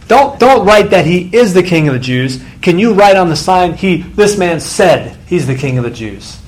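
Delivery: whiny complaint. Retold or imitated. Preacher voicing the leaders begging Pilate, whiny. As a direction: whine at the governor like a sulking child. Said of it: "you could sense the whininess in this".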